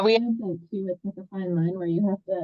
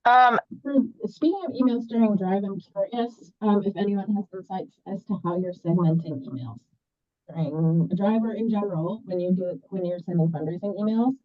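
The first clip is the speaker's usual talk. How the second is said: muffled mic sound, like through glass; inside a fishbowl. Real, not acted. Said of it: "now it kinda sounds like you're in a fishbowl".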